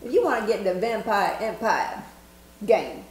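lightly Southern accent. Shown as a demonstration. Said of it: "I like that southern accent".

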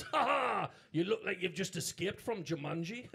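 Geordie heckler. Retold or imitated. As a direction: cackle it out like a cheeky Geordie. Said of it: "He goes".

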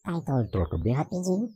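rapidly shifting filtered voice; fast switching voice effects. Shown as a demonstration. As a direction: voice changer flipping effects quickly. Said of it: "a troca rápida dos efeitos".

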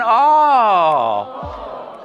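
drawn-out, loud "oh" that starts high and falls; a big, scandalized "oh" for others to echo; model gasp of shock. Shown as a demonstration. Teacher leads the class in repeating "oh", shocked. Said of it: "Clase, repitan".

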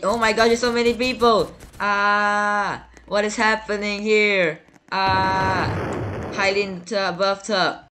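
high, loud panicked cries ending in a shout; frightened screaming. Real, not acted. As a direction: scream in terror at the crowd. Crowd of strangers appears suddenly.

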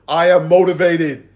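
slow, spaced-out affirmation; mantra. Shown as a demonstration. Coach giving the group a mantra, slow affirmation. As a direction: say it slowly for others to repeat. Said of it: "Say it with me".

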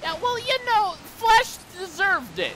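very high, loud mocking jab; mock callous. Streamer joking that Flash had it coming, silly mock voice. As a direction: toss it off in a silly put-on voice.

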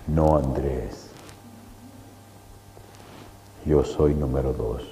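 hushed, slow and low, like a calm giant; a lightly voiced giant, low and slow. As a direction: drop the voice and stretch the no. Giant answers in the dream.

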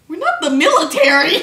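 loud, scoffing retort; incredulous. Acted. Sal answering rocket launcher question, loudly incredulous. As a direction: exclaim it as if absurd.

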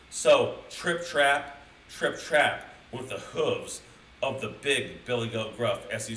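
slow, deliberate storytelling beat; story narration. A narrator's reading. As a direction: draw out each hoofstep like a storyteller. Reads the story dramatically.

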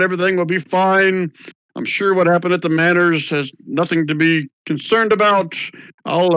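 mildly voiced old official pleading for calm; calming town official. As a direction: settle the crowd down gently. GM voices official reassuring crowd.

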